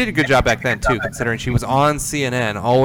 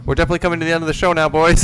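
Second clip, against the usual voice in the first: hyped sign-off; 5 semitones higher, 3 dB louder, much faster than usual. Real, not acted. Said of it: "repeats show wrap line".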